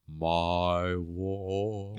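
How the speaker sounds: low, lordly pronouncement; lightly hammed lordly voice; grand "my ward". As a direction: savour it like a brooding aristocrat. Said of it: "so I can go".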